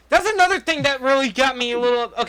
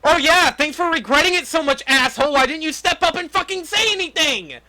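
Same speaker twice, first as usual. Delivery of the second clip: angry sarcasm; 7 semitones higher, 3 dB louder than usual. Real, not acted. Sarcastic rant at the character.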